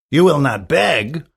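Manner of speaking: incredulous question, "will" pushed up; astonished rise on "will"; surprised. Acted. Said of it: "cried out the youth with surprise".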